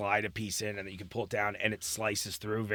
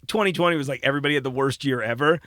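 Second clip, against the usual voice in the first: gleeful boast; 6 dB louder than usual. Retold or imitated. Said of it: "I'm always like".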